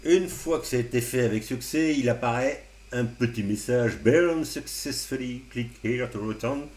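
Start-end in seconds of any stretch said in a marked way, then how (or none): 4.0-6.7 reading out English screen text in a hammed-up French-accented English, slower; mock English accent. Tutor reading the flash success message to viewers, in a mock English accent. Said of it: "Vous appréciez mon, mon accent anglais parfait".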